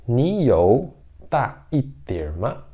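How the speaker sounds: "Ni you da iter ma?" ainda mais devagar, esticando cada sílaba; repetição bem lenta. Shown as a demonstration. (professora repetindo devagar para os alunos)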